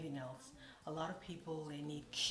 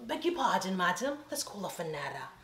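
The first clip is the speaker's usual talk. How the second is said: loud, affronted formal reply; indignant; 9 dB louder than usual. Retold or imitated. Answering the stylist on the phone, loud and affronted. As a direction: huff it out, offended.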